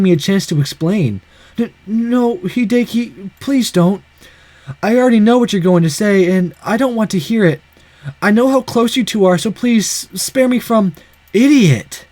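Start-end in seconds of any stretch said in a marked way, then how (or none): 1.6-12.1 pained pleading. Acted. Begging not to hear the explanation.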